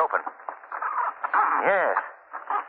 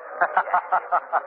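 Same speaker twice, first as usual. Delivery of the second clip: forced laugh; 5 semitones higher than usual. Acted. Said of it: "Laugh it up, will you?".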